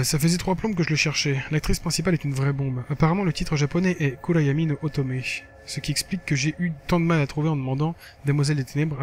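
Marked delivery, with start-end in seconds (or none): 0.0-7.9 lively reading of a blog entry; lightly performed text narration; diary read-aloud. Acted. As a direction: read it out like a casual teen diary. Reads game diary aloud.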